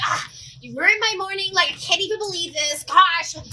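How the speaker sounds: mildly huffy imitation of the nurse; passive aggressive. Nurse blaming sick student for her morning, mildly passive aggressive. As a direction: grumble pointedly, without raising the voice. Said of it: "being passive aggressive".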